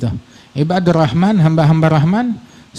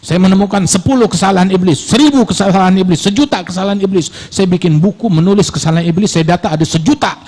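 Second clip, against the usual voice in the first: hammed-up bragging, building excitedly; mock boasting; 4 semitones higher than usual. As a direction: voice a proud fault-counter, higher pitched. Mimics boaster counting the devil's faults.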